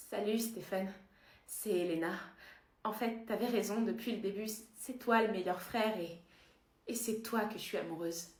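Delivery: low, soft, halting love confession; tender declaration. Acted. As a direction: confide your love gently. Fausse déclaration d'Elena à Stefan.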